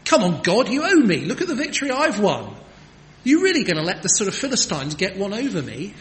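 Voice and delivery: loud, high, fast demanding whine at God; indignant, entitled complaint to God; complaining prayer. Retold or imitated. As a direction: throw it at God like he owes you. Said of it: "a kind of prayer of complaint".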